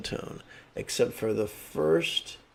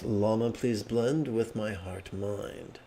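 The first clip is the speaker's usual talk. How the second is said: slow sincere prayer; 4 dB quieter, slower than usual. Shown as a demonstration. Contemplation prayer.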